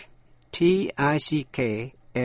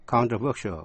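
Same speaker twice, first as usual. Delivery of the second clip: controversial accented on "ver"; stress on third syllable. Shown as a demonstration. Teacher repeats controversial for learners, stressing the third syllable. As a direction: say controversial as con-tro-VER-sial. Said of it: "dấu nhấn rơi vào âm thứ ba".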